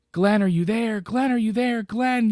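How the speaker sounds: high, loud frantic calls; desperate high yelling for Glenn; retold screaming. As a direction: scream for him to wake you. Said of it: "And she's screaming".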